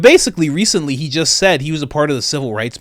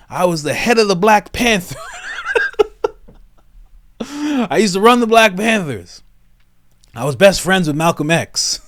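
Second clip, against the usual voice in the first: mock Biden. Extended Biden impression riff.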